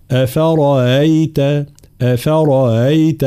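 slow أفرأيت with the hamza after the ra softened; eased second hamza. Shown as a demonstration. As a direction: say أفرأيت slowly, gliding lightly over the second hamza, ra kept heavy. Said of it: "تسهيل الهمزة التي بعد الراء".

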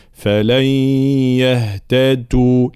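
slow يهتدوا with د like ت; wrong devoiced dal. Shown as a demonstration. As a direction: let breath turn the د of يهتدوا into ت. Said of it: "وكأنها صارت شبيهة بحرف التاء". («يهتدوا» بدال شبيهة بالتاء)

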